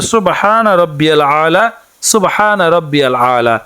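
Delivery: slow, measured Arabic recitation, each word clear; careful recitation. Shown as a demonstration. Teacher showing women the prayer words, slow careful recitation. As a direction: recite it slowly so learners can copy. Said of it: "বাংলাতে উচ্চারণটি হচ্ছে".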